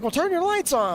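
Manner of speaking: imitating Spencer. Spencer telling him over the radio, high mock yell. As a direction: snap it back high like Spencer. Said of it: "He's like".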